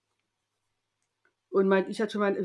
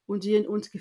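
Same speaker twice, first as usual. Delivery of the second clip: ordinary talk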